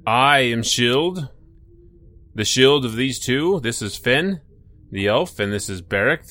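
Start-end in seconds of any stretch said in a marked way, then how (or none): 0.1-3.6 louder, slow proud introduction; proud warrior voice. Acted. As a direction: announce yourself like a hero. Character greets the light.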